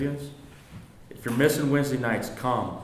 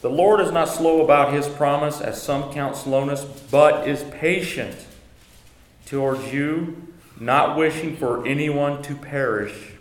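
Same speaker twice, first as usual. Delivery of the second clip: slow, louder, raised reading of the verse; scripture reading; 4 semitones higher, 6 dB louder than usual. Acted. Teacher reading scripture aloud to the class, slow and solemn. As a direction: read the verse out with weight and care.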